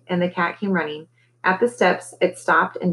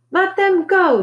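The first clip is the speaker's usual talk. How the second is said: high, raised holler; 13 semitones higher, 4 dB louder, slower than usual. A narrator's reading. Girl rushes to rescue the boys, hollering. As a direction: holler a command across the park. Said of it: "Deli hollered".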